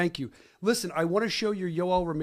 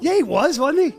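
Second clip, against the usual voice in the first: louder, higher protest; insistent; 10 semitones higher, 9 dB louder than usual. Real, not acted. Arguing with co-host, loud insistent protest. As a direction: push back loud and high.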